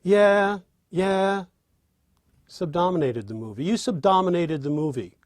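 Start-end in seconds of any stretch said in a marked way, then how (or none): 0.0-1.4 yeah said higher and louder; a bright, keen yeah; eager yeah. Shown as a demonstration. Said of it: "you know what the answer is".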